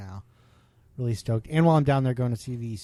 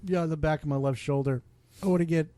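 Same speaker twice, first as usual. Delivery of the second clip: talking through hiccups; hiccuping between words; 4 semitones higher than usual. Real, not acted. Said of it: "sorry, I have the hiccups".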